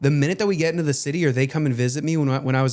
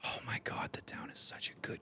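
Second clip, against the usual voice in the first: whispered, voiceless aside; very soft unvoiced enthusiasm; hushed gushing; 16 dB quieter than usual. Real, not acted. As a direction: breathe it out in a reverent whisper. Gushing about favorite movie, voice dropped.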